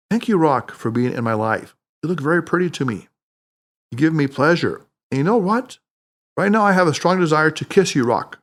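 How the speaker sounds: sincere, heartfelt thanks; mean every word, tenderly; with real emotion. Acted. Harry speaking to the rock, now truly grateful. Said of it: "spoke to it with real emotion".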